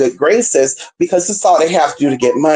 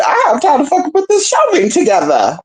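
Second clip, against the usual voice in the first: 1 retold self-talk; 10 semitones higher than usual. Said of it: "I'm like".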